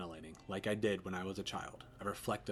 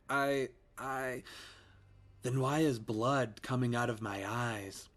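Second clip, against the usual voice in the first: put-on eerie child ghost; 4 semitones higher, slower than usual.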